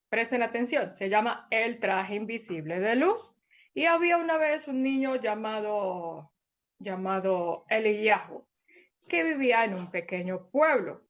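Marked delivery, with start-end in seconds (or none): 3.7-11.0 gentle storybook narration for little ones; storyteller voice for small children; story for children. Acted. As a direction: read it like a bedtime tale to kids.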